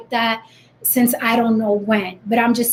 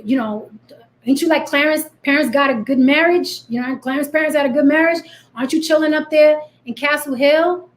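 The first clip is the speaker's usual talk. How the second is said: lightly voiced, challenging questions; skeptical hood girl; 3 semitones higher than usual. Real girls from the block grilling a poser, lightly mocking. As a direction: quiz the poser, doubtful. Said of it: "the real Jens on the block are like".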